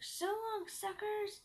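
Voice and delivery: high, taunting farewell; snarky shout. A narrator's reading. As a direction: toss it back as a gloating goodbye. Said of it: "shout something snarky like".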